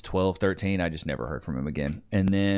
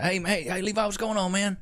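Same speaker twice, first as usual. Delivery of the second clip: imitating dad; 12 semitones higher than usual. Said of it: "he was like".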